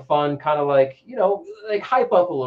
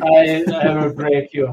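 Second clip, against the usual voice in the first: barbarian; 8 dB louder than usual. Retold or imitated. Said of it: "a Rocky versus Ivan Drago kinda thing".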